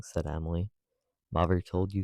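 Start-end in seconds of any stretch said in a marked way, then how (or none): 1.3-2.0 "Mother" pushed out with bitter stress; bitter emphasis on MOTHER. A narrator's reading. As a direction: lean bitterly on the word "Mother". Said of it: "with a thrilling and bitter emphasis on the word mother".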